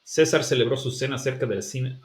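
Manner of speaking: César celebró su cena with every C as S, a bit Mexican; hissed S on each C, Mexican flavour; Latin American S. Shown as a demonstration. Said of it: "I'm sounding more Mexican now".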